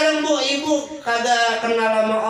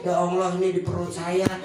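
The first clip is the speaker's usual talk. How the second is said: humble confession; 4 semitones lower, 5 dB quieter than usual. Retold or imitated. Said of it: "kita ngaku nih".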